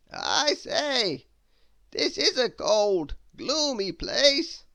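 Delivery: high, loud, slow theatrical wizard. Acted. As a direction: savour every grand word like an eccentric wizard. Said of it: "said the wizard".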